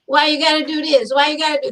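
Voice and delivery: a hint of a whiny defender; mildly whining, a touch fast; mock whiny complaint. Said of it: "Normally it's".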